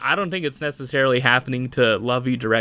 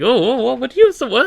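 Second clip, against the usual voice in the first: higher, louder mock outrage with a laugh; reacting to a dig at a favourite character, higher and louder; surprised protest; 12 semitones higher, 5 dB louder than usual. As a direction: jump up like you've just been insulted. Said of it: "And I'm just like".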